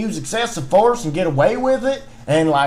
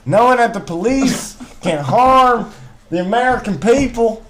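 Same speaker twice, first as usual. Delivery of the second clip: put-on Southern twang. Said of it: "I'm losing my accent".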